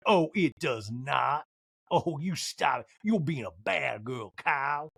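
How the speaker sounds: slow, drawn-out mock scolding; Sutton. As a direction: scold lightly, stretching every word. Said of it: "And Sutton's like".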